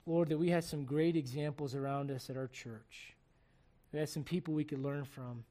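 earnest, steady prayer voice; closing prayer. Acted. Pastor praying over the church's marriages, earnestly. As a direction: pray sincerely over the congregation.

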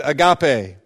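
"agape" with the stress on its middle syllable, a-GA-pe; misplaced stress. Shown as a demonstration. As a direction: say "agape" as a-GAH-pay, leaning on GAH. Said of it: "putting the emphasis on the wrong syllable".

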